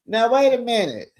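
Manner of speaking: put-on girl, wait a minute, you did what?; incredulous call-out. Host calling out Bonita over her battered car, incredulous. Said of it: "I'm like".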